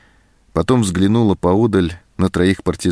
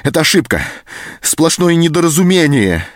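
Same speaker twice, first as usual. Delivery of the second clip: higher, louder, insistent denial; hot-tempered protest; 9 semitones higher, 3 dB louder than usual. A narrator's reading. Anton protests to the sergeant, heated and loud. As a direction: protest hotly, rising. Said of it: "запальчиво перебил его Антон".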